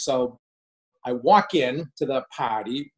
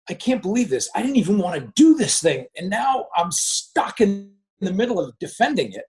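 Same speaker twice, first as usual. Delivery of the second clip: retold inner protest, pitch raised; exasperated disbelief; 5 semitones higher than usual. Looking down on himself defending the plan, exasperated disbelief. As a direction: think aloud in higher, mildly exasperated amazement.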